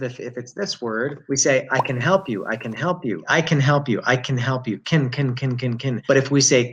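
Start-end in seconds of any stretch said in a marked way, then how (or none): 1.7-6.0 "can" reduced to a quick "kin"; unstressed CAN. Shown as a demonstration. Teacher showing the positive word to learners, reduced CAN. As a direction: pass lightly over "can", vowel weakened. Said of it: "if the word is positive".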